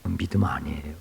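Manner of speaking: an unvoiced, hushed verdict; whispered verdict. Real, not acted. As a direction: drop to a whisper to make the point. Hushed verdict after mock panic.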